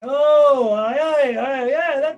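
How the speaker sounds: high, loud happy exclamation; delighted recognition. Acted. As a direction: burst out as it clicks. King recalls battle comrade.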